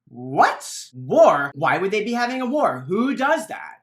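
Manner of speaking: loud alarmed disbelief; shocked. Acted. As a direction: villagers gasp at the news. Villagers shocked by war news.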